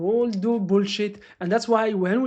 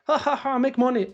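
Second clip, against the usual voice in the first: mock laughing; 4 semitones higher than usual. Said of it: "He was laughing".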